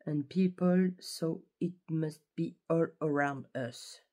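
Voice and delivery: slow English reading with a French accent. Shown as a demonstration. Vlogger reading a bookmark quote in French-accented English. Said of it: "mon accent anglais est pas, est pas ouf".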